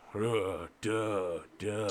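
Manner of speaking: slow, dull imitated footfalls; plodding "duh" steps. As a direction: plod out each heavy step. Imitates farmer's plodding approach.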